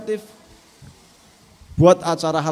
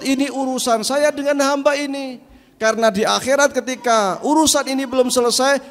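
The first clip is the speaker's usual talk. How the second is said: Prophet calming the crowd; 3 semitones higher than usual. Acted. Prophet telling companions to stay calm, firm.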